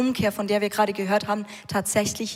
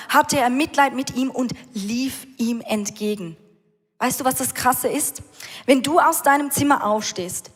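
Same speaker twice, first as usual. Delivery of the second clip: raised, driving sermon voice; fervent preaching; 3 semitones higher than usual. Acted. Preacher telling the church how the father runs, fervent. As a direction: preach it out with rising fire.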